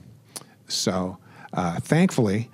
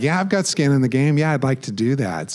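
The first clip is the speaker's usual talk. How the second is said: laughing while repeating it, a bit louder and higher; laughing at himself, louder; 5 semitones higher, 4 dB louder than usual. Retold or imitated. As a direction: chuckle through the repeat of your own reply.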